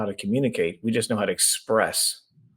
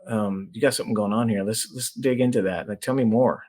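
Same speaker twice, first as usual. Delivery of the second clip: calm curious listener. Shown as a demonstration. Coach showing a spouse how to listen, calm and curious. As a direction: show a partner you really hear them. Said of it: "Hearing it is being like".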